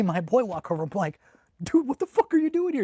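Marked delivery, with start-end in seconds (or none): 1.6-2.8 loud, high-pitched amazed question; astonished greeting. Retold or imitated. Soldier meeting hometown friend in Kuwait, astonished. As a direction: exclaim it at an unexpected old friend.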